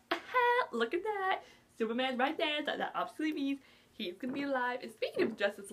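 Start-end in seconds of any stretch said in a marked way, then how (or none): 0.1-2.6 gleeful aha. Retold or imitated. Spotting Cavill in cast list.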